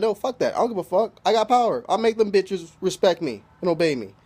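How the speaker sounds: imitating someone brushing off advice; defiant retort. Acting out Indra's defiant retort.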